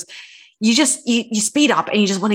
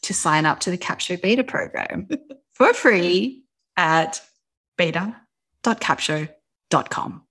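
ad read voice. Shown as a demonstration. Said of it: "Ad read voice".

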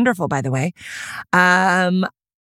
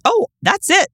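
much higher, carried-away mock bliss; giddy elation; 6 semitones higher than usual. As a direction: gush as if life is now complete. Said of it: "I'm like".

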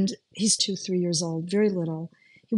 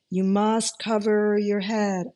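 mysterious voice; 2 semitones higher, slower than usual. Retold or imitated. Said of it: "I hear a voice".

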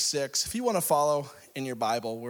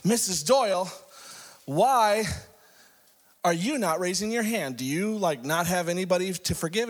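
higher, halting preacher's challenge; exasperated preacher; 5 semitones higher than usual. Acted. Pastor singling out Missus Doyle from the pulpit, exasperated. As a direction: call her out, pausing after the name. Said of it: "so the preacher goes".

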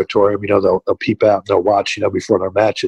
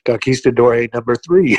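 shouted through laughter; laughing punchline; 2 semitones higher than usual. Retold or imitated. Wrestler telling the agent who's in the ring, laughing shout. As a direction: deliver the punchline cracking up. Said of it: "He goes".

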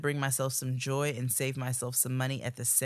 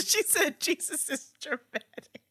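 laughing; 13 semitones higher than usual. Real, not acted. Laughing while repeating line.

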